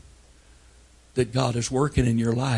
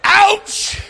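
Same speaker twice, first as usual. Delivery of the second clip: short high clipped ouch; boy's tough ouch; 8 dB louder than usual. Retold or imitated. Boy hit by a ball, shrugging it off with a high ouch. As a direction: play it off like it barely hurts. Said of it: "No, no, no".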